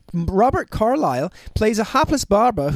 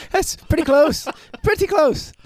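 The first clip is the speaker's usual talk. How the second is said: higher, amused voice through laughter; laughing; 7 semitones higher, slower than usual. Real, not acted. Laughing at a joke about Doris.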